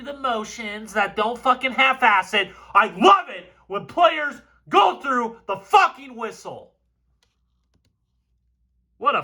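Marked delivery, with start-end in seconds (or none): 2.7-6.7 raised, hyped shout; fired up. Real, not acted. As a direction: rant with passion. Fired up rant about effort.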